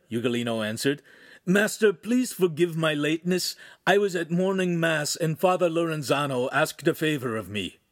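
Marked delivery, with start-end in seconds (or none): 1.5-7.8 higher, apologetic character voice; a touch of eager deference; lightly voiced humble apprentice. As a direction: plead pardon of your master.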